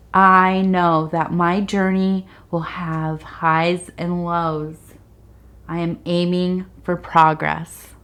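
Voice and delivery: slow, measured reading aloud; card reading. Real, not acted. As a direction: read the card text slowly. Reads card text aloud.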